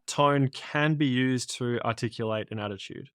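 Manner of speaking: emphasis on "can" in the phrase; stress on CAN. Shown as a demonstration. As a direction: lean on the word "can". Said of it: "Emphasis on the word can".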